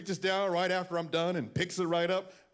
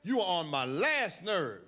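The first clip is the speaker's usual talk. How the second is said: Southern mother scolding; slower than usual. Retold or imitated. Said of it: "She's from the South, so she's that phrase".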